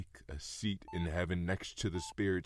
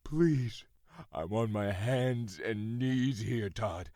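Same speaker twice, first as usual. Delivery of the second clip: desperate plea; 4 semitones higher, slower than usual. Acted. Father on his knees pleading.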